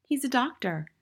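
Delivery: put-on high little-boy voice; high-pitched, unruffled schoolboy; small boy, reasoning. A narrator's reading. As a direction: explain innocently in a high child's voice.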